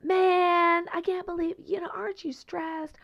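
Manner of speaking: high, incredulous questions; incredulous commenters. Retold or imitated. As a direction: ask in disbelief that he could be so calm. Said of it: "were like".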